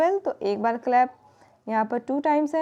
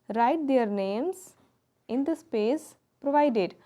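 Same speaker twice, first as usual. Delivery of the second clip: slow instruction read; much slower than usual. Shown as a demonstration. Teacher reading textbook instruction.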